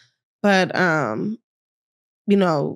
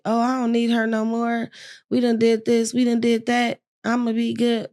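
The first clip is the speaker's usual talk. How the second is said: a hint of mock cocky bragging; talking big; 5 semitones higher than usual. Patient boasting she doesn't need the nurse, mildly cocky. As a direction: lightly brag that you've got it handled. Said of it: "talking big shit".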